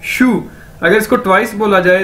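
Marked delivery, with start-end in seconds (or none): 0.0-0.4 "शू" like English shoe; "शू" said exactly like the word shoe; demonstrated pronunciation. Shown as a demonstration. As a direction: model "शू" as one clear syllable. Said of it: "जूते को English में शू".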